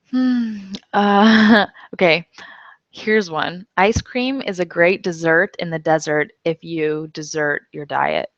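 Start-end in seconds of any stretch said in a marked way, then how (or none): 3.8-8.3 "dessert" deSERT, "desert" DEZert, "desert" deSERT; three words, stress marked; teacher reading the tongue-twister; homograph demo. Shown as a demonstration. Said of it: "This one is spelled with two S's".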